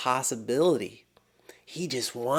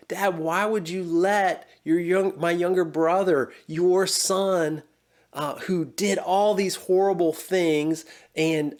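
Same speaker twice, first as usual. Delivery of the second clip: raised, higher-pitched complaint as the resentful son; older son protesting to his father, hurt and raised; aggrieved older son; 4 semitones higher than usual. Retold or imitated. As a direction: plead the unfairness up high, stung and indignant.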